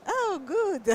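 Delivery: high, delighted exclamation; light up with delight; excited. Real, not acted. Delighted at an Italian speaker.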